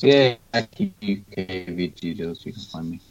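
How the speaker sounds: choppy, cutting out connection; breaking up voice. Real, not acted. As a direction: voice breaking up over a bad line. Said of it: "for those who can't understand breaking up voice".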